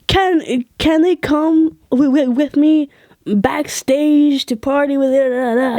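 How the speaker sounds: lightly voiced friend angling for backstage; buddy asking a favour. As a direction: mimic a hopeful, halting ask.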